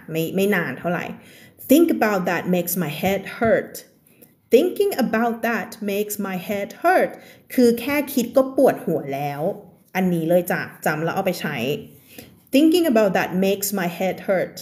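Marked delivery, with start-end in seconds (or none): 1.7-7.1 very slow, careful reading of the text; slow reading aloud. Acted. Teacher reads the story text slowly to her class. 12.5-14.6 very slow, careful reading of the text; slow reading aloud. Acted. Teacher reads the story text slowly to her class. Repeats the phrase for learners.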